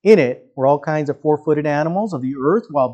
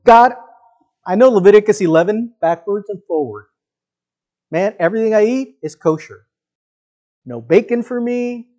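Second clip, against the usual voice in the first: higher, pleading, a touch indignant; pleading Peter; 5 semitones higher than usual. Pretend. Peter protesting to God about unclean food, a higher mock plea. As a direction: protest to God like a rule-keeping believer. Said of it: "Peter says".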